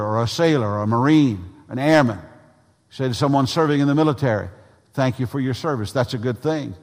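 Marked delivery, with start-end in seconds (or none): 4.9-5.9 tossed-off thanks in an everyday voice; rote catchphrase. Shown as a demonstration. Preacher quoting routine thanks to the military, perfunctory. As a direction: run it off as a stock phrase. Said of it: "a catchphrase like".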